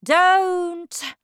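loud, high warning cry; sudden urgent yell; alarmed shout. Acted. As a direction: shout to stop a child. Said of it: "shouted Mister Wonka".

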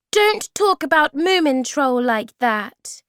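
high, loud indignant rebuke; angry. A narrator's reading. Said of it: "said Snork Maiden angrily".

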